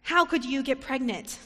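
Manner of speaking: a preacher voicing a scolding relative. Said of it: "scolded her".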